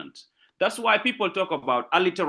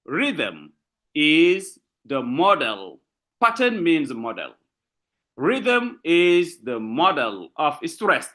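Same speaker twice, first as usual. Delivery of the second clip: deliberate repeat; slower than usual. Shown as a demonstration. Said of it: "I repeat".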